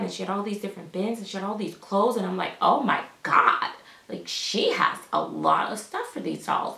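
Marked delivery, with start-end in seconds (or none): 2.6-6.8 slow, loud "oh my God", stretched out; lightly hammed-up disbelief; mildly acted amazement. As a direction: imitate being stunned, drawing the words out. Acting out her amazed reaction.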